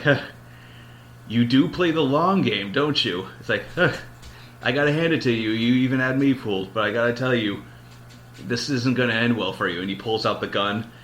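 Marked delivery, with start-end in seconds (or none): 0.0-3.3 higher, slow, sneering menace; wounded Pedro Pascal taunting the husband; menacing villain. Retold or imitated. Beaten villain laughing menace. 3.7-9.8 menacing villain. Retold or imitated. Villain threatens husband.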